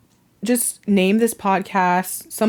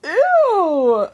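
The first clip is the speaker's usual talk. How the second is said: high squeal of disgust then laughter; laughing at the snorting dog; grossed-out laugh. Real, not acted. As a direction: shriek ew and burst out laughing.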